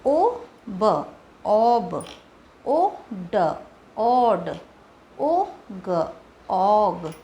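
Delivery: slow separated sounds then the blend; phonics blending demo. Shown as a demonstration. Teacher drilling short o blends, slow and separated. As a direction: sound out each letter. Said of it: "ओ sound blending".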